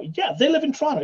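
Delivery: high-pitched quoted reply. Retold or imitated. Family answering cousin on phone, squeaky high. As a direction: voice jumps way up, playing the family member.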